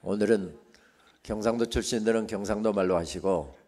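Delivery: ordinary delivery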